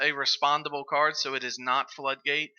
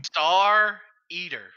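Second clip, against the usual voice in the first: hype call; 4 semitones higher, 6 dB louder, much slower than usual. Real, not acted. Caster hypes the winning card.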